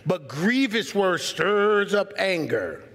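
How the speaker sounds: slow, soft scripture reading; gentle slow reading. Shown as a demonstration. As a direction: show the soft answer by doing it. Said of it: "don't raise your voice".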